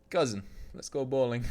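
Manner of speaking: lightly put-on Slavic accent; mock game-character Russian-style accent; Niko Bellic. Streamer asked for a Russian accent, Niko Bellic accent. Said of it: "I can only do a Niko Bellic accent".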